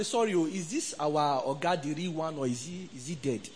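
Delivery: low, soft worried asking; hushed question. Retold or imitated. Visitor's hushed worried question retold.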